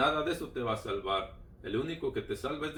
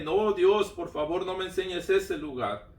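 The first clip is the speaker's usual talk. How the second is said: raised, higher-pitched plea; retold crying out; 4 semitones higher, 4 dB louder than usual. Man retells pleading with God about that place, crying out. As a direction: start loud and high, stay high while begging. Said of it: "yo por eso le clamé".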